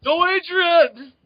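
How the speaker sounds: slow, high, loud wail; Sylvester Stallone. Acted. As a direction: bellow the catchphrase like a punchy boxer. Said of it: "starring Sylvester Stallone".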